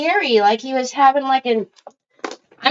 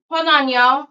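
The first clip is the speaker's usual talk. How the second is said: ordinary delivery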